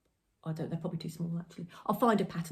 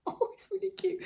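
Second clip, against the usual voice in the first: high giggling delight; giggly; 13 semitones higher than usual. Real, not acted. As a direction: laugh through the words. Giggling over wrapping the bunny.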